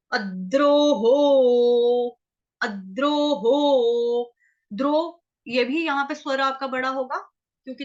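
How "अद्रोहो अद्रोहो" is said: अद्रोहो with the weight on the द्र cluster, slow; अद्रोहो with a doubled d; stress on half d. Shown as a demonstration. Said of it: "आधे द का".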